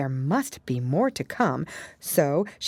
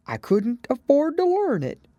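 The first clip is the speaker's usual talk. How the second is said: sighing; 12 semitones higher, 4 dB louder than usual. A narrator's reading. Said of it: "with a sigh".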